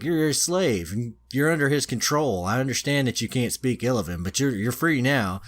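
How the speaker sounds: a hint of a pompous hero explaining; spear hero voice. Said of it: "he's like".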